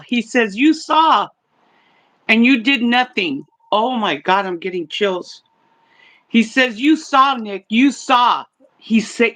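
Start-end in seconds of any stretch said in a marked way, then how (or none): 0.6-3.4 mock accusing cry, pitched higher; retold yell at brother. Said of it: "he's yelling at his brother". 6.8-8.4 slow mock accusation, pitched higher; retold yell at brother. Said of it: "he's yelling at his brother".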